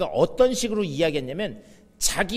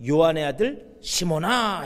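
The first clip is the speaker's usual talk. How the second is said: tender call; 3 semitones lower, slower than usual. Acted. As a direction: gently call the name, slowly. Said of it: "이렇게 부르세요". (천천히 다정하게 부르는 목소리)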